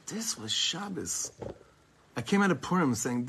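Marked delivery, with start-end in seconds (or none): 0.1-1.3 soft, slow, reverent delivery; hushed awe. Shown as a demonstration. Teacher sums up the whole Shabbos, softly awed. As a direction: let it land in quiet wonder. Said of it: "looking at the whole thing and saying".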